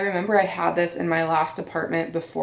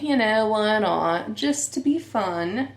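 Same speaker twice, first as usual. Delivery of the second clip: higher, drawn-out playful lilt; odd playful voice; 4 semitones higher than usual. Real, not acted. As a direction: let it slip into a silly sing-song. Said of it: "Why am I talking like this".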